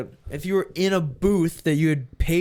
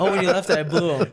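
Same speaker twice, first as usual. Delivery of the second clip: laughing through words. Real, not acted. Friends laughing at a crude joke.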